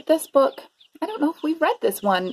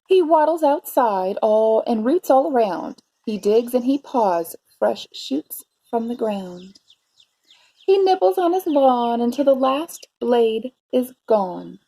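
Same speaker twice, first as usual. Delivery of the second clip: story narration. A narrator's reading. Teacher reading a bear story to preschoolers, expressive narration. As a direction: savour the rhymes for young listeners. Reads picture book to children.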